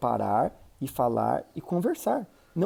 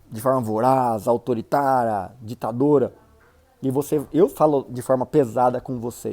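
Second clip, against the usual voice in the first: mock harsh delivery; 6 dB louder than usual. Shown as a demonstration. Showing a harsh, bossy way of talking.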